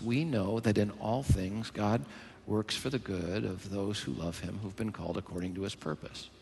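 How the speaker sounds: hushed, low repeat of scripture; verse recital. Real, not acted. Preacher repeating Romans verse to the church, quiet recital. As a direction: say the verse softly, letting it fade.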